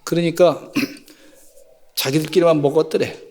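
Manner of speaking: ordinary talk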